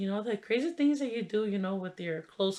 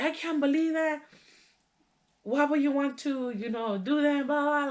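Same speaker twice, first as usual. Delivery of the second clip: high-pitched imitation of a scolding aunt; retold mad aunt; 8 semitones higher than usual. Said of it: "mad at my cousin".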